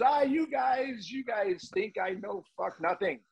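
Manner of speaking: put-on high, slow French-accented rant. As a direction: imitate an irate French coach. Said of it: "in his French accent".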